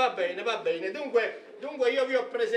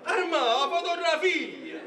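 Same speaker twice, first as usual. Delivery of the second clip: urgent hissed prompt; 6 semitones higher, slower than usual. Acted.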